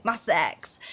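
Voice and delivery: sassy, low delivery of a band's name; with attitude. Shown as a demonstration. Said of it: "I just wanna say it with attitude".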